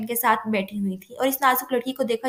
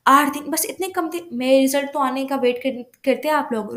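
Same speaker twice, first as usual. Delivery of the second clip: startled protest; astonished. Acted. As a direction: react as if the date came far too soon. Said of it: "रुबाब हैरान हुई".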